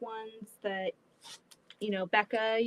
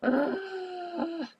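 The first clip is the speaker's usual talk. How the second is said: groan; 8 semitones higher than usual. Real, not acted. Dread before story.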